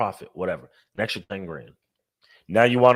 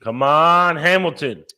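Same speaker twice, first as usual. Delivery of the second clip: louder, higher rooting shout; cheering on Hamilton; 5 semitones higher, 7 dB louder, slower than usual. Real, not acted. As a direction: urge your driver on loudly. Cheering on a driver.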